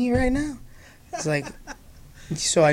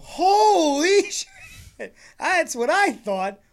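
laughing disbelief; 11 semitones higher, 5 dB louder, much slower than usual. Real, not acted.

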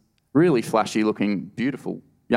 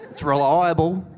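proud claim; 7 semitones higher than usual. Retold or imitated. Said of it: "he's like".

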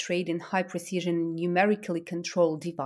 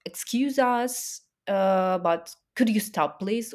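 mock pleading; 2 semitones higher, slower than usual. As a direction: plead sarcastically, drawing it out. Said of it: "sit down and say".

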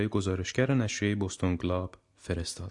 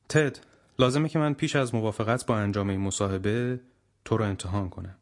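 weighty, loud voice. Acted. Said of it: "با صدای وزین، آهنگین و بلند".

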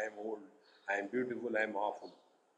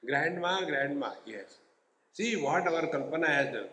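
mock shout; 3 semitones higher, 3 dB louder than usual. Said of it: "And then he shouted".

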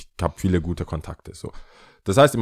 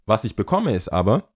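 ordinary talk

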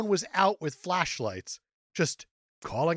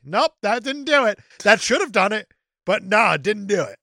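grumpy; 2 semitones higher, 4 dB louder than usual. Acted. Complaining to co-host about an unredeeming ending, grumpy. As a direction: reject it like a grouchy viewer. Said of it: "You're just a grumpy old man".

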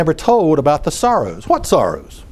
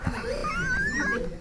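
high laugh; 14 dB quieter than usual. Real, not acted. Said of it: "he never gives the answer".

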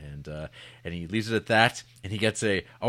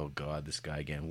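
bored groan; 6 semitones lower, 10 dB quieter than usual. Retold or imitated. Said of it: "they're going".

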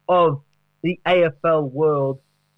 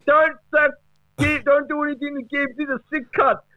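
much higher, excited bloke voice; mock Fevola voice; 12 semitones higher than usual. Mate pleading for Gibbs, higher-pitched and excited. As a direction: squeal it like a hyped footy mate. Impersonating Brendan Fevola's text.

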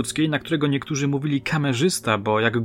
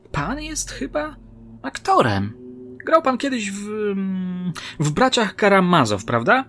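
much higher woman's voice, probing and slow at first; curious policewoman; 8 semitones higher, slower than usual. Acted. Policewoman asks the actor about his role, higher and probing. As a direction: play the sharp detective sizing him up.

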